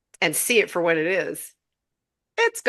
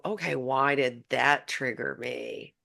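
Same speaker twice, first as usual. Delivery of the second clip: curious to herself; 5 semitones lower, 5 dB quieter, slower than usual. Retold or imitated. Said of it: "I go".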